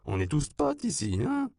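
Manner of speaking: put-on high, sighing drunken flattery. A narrator's reading. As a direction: coo it half asleep and drunk. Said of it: "soupira-t-il".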